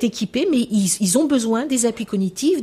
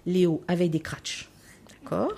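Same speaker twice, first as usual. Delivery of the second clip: put-on whispered child's line; 3 semitones lower, 6 dB quieter than usual. Child voice in retold class.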